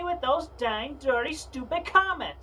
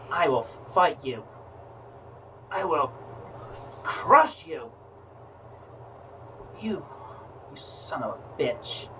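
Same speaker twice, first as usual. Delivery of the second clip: barbarian; 7 semitones lower, 3 dB quieter than usual. Acted. Chris's low tough fighting voice.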